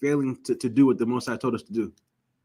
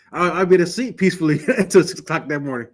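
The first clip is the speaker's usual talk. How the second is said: laughing while telling; 2 semitones higher than usual. Real, not acted. Laughing at memory.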